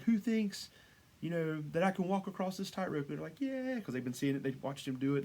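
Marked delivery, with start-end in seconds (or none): 0.0-3.1 raised-pitch mock call to a crowd; yelling to crowd. High-wire performer to the stadium crowd, mock yelling. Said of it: "he's, like, yelling out to the crowd". 3.4-3.8 high, drawn-out mock cheer; excited crowd. Stadium crowd answering the performer, imitated excitement. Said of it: "and they're, like, excited".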